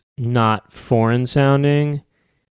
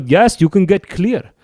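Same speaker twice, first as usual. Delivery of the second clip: scammer; 7 semitones higher, 4 dB louder than usual. Retold or imitated. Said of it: "They go".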